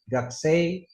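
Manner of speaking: Gaksei gliding up into "gak-sey"; wrong y ending. Shown as a demonstration. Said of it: "kedengaran kayak Y".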